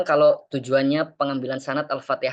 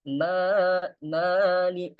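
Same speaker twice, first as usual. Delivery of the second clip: mali- sung higher with a wavering tune; wrong melodic reading; 5 semitones higher, much slower than usual. Shown as a demonstration. Teacher shows students the forbidden tune. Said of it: "nah, itu nggak boleh".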